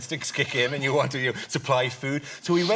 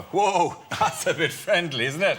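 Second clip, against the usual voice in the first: higher, alarmed and awkward; a jumpy Irish man taken aback; startled recoil; 6 semitones higher, slower than usual. Retold or imitated. Irish man recoiling from a Spanish kiss, startled and higher. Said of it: "Irish men automatically recoil".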